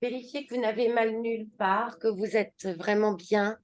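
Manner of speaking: unhurried settling-in guidance, words drawn out at the end; yoga instruction. Acted. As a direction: guide them slowly into a comfortable position. Leads class into relaxation posture. (consigne de yoga posée, fins de phrases étirées)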